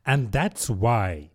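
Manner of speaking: put-on slow, withering old duchess; drawn-out, scornful duchess voice; frail withering duchess.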